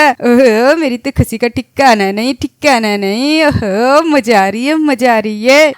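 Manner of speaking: excited cheering. Acted. Boy celebrating birthday trip, dancing.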